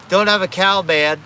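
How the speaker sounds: lightly voiced cartoon boy; Bart. Cartoon kid giving his catchphrase, light impression. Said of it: "I can do a couple lines from, like, Bart".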